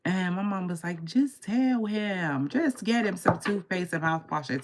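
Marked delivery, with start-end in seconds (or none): 1.0-4.6 slow, raised imitation of a mother; drawn-out motherly advice, put on; mother advising. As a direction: stretch it out high, mimicking a mother. Mother's advice, voiced in story.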